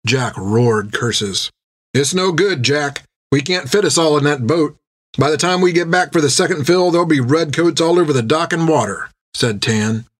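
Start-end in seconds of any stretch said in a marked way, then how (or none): 1.9-9.1 higher, hurried objection; lightly voiced sailor warning of trouble; urgent crewman Tan. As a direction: press the warning, pitched up.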